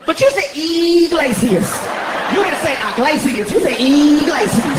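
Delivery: "you" stressed, slow and loud; stressing you. Retold or imitated. Guest argues how to say his name, stressing "you". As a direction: lean hard on the word "you". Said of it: "arguing over pronunciation".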